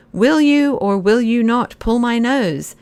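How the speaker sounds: exasperated nobleman pressing for an answer. A narrator's reading. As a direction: at the end of his patience. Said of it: "said the Marquis in exasperation".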